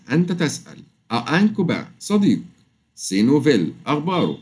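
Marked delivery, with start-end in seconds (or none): none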